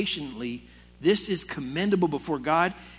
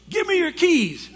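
higher, louder imitated order; angry demand; 12 semitones higher, 6 dB louder than usual. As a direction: boss demanding the store keys, mock-shouted. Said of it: "He goes".

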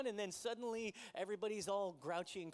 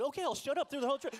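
sarcastic son; 6 semitones higher, 9 dB louder, faster than usual. Retold or imitated. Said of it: "And he said".

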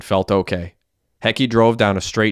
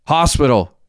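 high, pained yell; raised, urgent cry; 6 semitones higher, 4 dB louder than usual. A narrator's reading. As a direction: call out urgently for help. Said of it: "yelled Derek".

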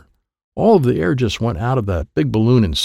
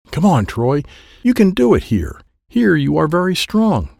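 higher, coaxing encouragement; earnest coaxing from Dad; encouraging father; 6 semitones higher than usual. Acted. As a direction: urge a child on, pitched up. Father urging his child on.

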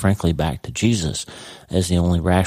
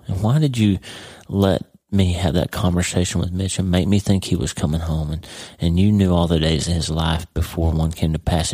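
angry plea to God. Retold or imitated. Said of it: "and I'm mad".

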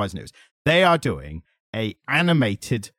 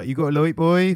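Norfolk accent; 4 semitones higher than usual. Shown as a demonstration. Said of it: "I could do a".

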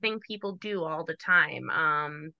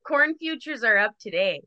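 North Dakota accent. Shown as a demonstration. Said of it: "Oh, yeah, there it is".

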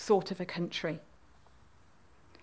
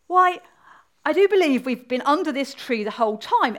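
high, louder opening, then easing; great surprise; 4 semitones higher, 4 dB louder than usual. Acted. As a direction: exclaim it with a touch of astonishment. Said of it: "in great surprise".

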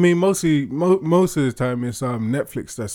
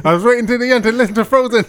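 mock listener; 9 semitones higher, 6 dB louder than usual. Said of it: "Josh Becks".

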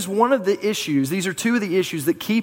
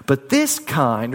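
slow emphasis; 3 semitones lower, slower than usual. Acted.

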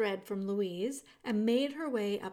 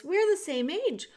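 louder and much higher call; shouting; 11 semitones higher, 6 dB louder than usual. A narrator's reading. Princess shouting to make Meg hear. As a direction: shout it across to her. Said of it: "she shouted".

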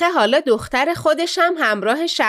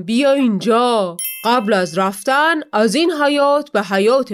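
commanding div. Acted. Div commands the departing daughter.

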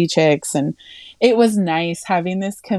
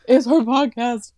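mock chime-in; 7 semitones higher than usual. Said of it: "Just like".

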